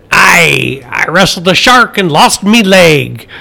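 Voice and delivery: gruff storybook pirate. Acted. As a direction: growl it like a pirate. Pirate joke, pirate voice.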